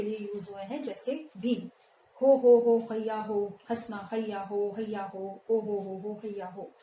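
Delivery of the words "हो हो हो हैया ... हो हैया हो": hearty shout. Acted. Teacher acting Bhim shouting for joy. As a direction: bellow it out like a carefree strongman. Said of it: "ऐसे ही चिल्ला रहा है भीम".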